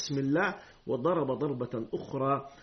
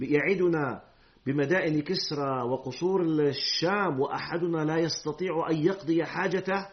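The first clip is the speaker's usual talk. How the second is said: mocking. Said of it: "كيف بيحكي باستهزاء".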